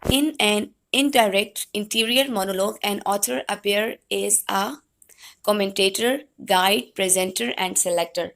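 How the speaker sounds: slow, measured lecture read-out; reading notes aloud. Real, not acted. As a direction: read it out slowly to the class. Reads out English definition. (ٹھہر ٹھہر کر نوٹس پڑھتے ہوئے)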